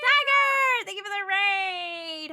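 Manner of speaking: high, loud grateful shout; loud, slow happy thanks; excited thanks. Real, not acted. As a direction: welcome the raid warmly. Thanks a raiding streamer.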